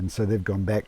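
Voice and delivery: talking with a hair in mouth. Real, not acted. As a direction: speak around something stuck in mouth. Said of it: "I've got a hair in my mouth".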